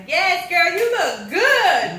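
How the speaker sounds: high, loud, slow drawn-out praise with a laugh; hyped compliment. Retold or imitated. Quoting a neighbour outside the gym, high, loud and laughing. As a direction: stretch it out like a gushing neighbour. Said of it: "she was like".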